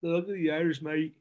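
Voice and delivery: lightly put-on Irish accent; a hint of Irish lilt, half-joking; mock Irish accent. Co-host echoes the luck of the Irish, faint mock Irish accent. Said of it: "that was a good little accent".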